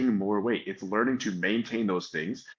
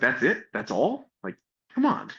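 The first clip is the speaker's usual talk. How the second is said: mock mad, fed-up, with swooping animated pitch; 6 semitones higher, 3 dB louder than usual. Retelling a lifter's reaction to very brief coaching advice: imitating an angry lifter. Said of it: "he's mad, he's pissed".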